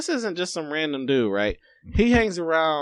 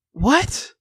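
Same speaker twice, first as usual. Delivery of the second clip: high, puzzled what; stunned what; 9 semitones higher, 6 dB louder than usual. Retold or imitated. Man on the street startled by a passerby's remark. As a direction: ask it in disbelief. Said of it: "And I said".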